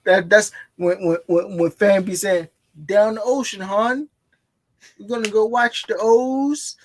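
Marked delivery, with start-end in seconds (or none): 2.9-6.8 a light mock Baltimore accent, a bit higher. Shown as a demonstration. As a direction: lightly imitate a Baltimore local saying hon. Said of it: "That's how they talk".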